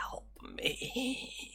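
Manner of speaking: very soft, breathy, barely audible whisper. Narrating a glowing potbelly stove that reaches out toward you: whispering. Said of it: "it just whispers".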